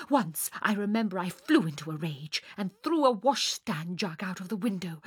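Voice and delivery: lightly voiced melodramatic young singer; theatrical Fräulein. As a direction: savour each grand emotion as if on stage. Sonia's dramatic monologue.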